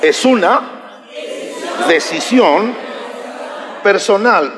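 "es una", "decisión", "personal" in slow separate chunks; word-by-word prompting. Shown as a demonstration. Pastor makes congregation say it, chunked call-and-repeat "es una / decisión / personal". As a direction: leave gaps after "una" and "decisión" to be echoed.

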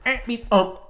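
high, loud yelping dog sounds; silly dog noise. Retold or imitated. Doing the odd noise of a dog breed, high yelping. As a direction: yap out strange dog noises. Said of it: "a breed of dog that goes".

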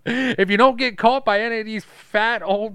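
high, loud, laughing through words. Real, not acted. Cracking up at his own joke to a friend, laughing. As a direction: crack up while finishing the joke.

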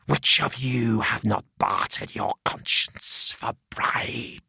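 slow, eerie voice of the drowned head; hissing ghostly head. A narrator's reading. Severed head hissing at the students, slow eerie accusation. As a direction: intone it slowly, accusing.

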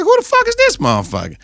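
high, fast mock mobster outburst; mobster quote. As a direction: squeak it out fast like a startled thug.

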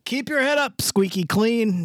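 sing-song cheerful "Keep your head up, squeaky clean" sounding unthreatening; friendly cadence. Shown as a demonstration. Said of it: "I changed the cadence".

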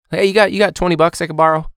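put-on high, pushy kid voice asking for change; mock student begging. Teacher imitating a student asking for cash, high and pushy. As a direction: play the wheedling student.

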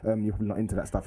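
low, earnest pupil voice; formal schoolboy impression. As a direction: imitate a proper kid, gently condescending. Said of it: "How comes you talk like this?".

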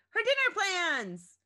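high, loud burst of remembering; sudden alarm. A narrator's reading. Chrissy suddenly remembers her plans, alarmed cry. Narrator voices sudden panicked recollection.

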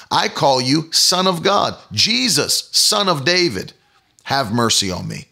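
pleading cry. Acted. Beggar voiced in sermon.

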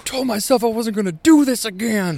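high, whiny imitation of a tearful woman; mock crying. Imitating his crying date mid-hookup, mock tearful. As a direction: put on a high weepy voice. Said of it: "I notice she's crying".

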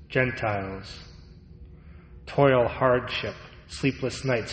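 earnest sermon delivery; preaching. Acted. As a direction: preach it with weight. Preaching on Saint Paul.

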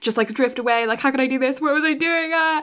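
mildly panicked, pitch climbing steadily; mock upset. Host voicing a girl who let her friend drift away, mock upset. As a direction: act out growing distress, lightly hammed-up. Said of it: "Homare's really upset".

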